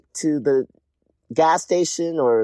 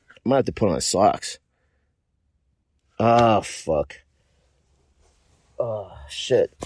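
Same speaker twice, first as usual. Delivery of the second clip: cold and grumbling; 6 semitones lower than usual. Real, not acted. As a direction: mutter through the cold, miserable. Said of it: "I am freezing".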